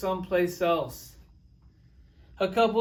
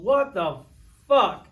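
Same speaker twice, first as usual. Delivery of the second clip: exasperated outburst; 3 semitones higher, 4 dB louder than usual. Retold or imitated. Husband venting at his moody wife, loud and indignant. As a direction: blow up at her for no reason. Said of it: "you're sitting there going".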